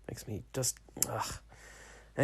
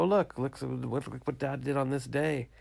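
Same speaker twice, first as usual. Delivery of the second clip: put-on higher, eager child pointing things out; excited son reading; 4 semitones higher than usual. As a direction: play the son finding dad's diary, a bit slowly. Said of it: "flip through and go".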